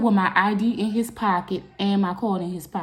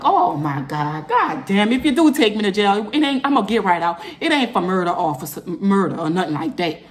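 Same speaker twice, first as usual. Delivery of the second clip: exasperated, louder protest; upset; 4 dB louder than usual. Retold or imitated. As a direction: protest innocence to the officer, worked up. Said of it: "I'm upset".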